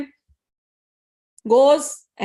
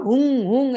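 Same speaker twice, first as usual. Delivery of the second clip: hunkar sound. Retold or imitated. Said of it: "he makes the sound hunkar".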